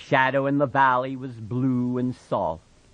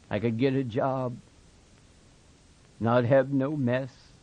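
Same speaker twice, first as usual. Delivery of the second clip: monotonous. Acted. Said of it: "His voice was monotonous".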